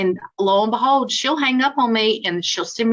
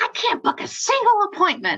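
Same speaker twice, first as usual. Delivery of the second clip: acted, huffy, angry grumbling, pitched very high; 11 semitones higher than usual. Speaker retells their own words on a phone call to her: retelling own angry complaint. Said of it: "I was mad".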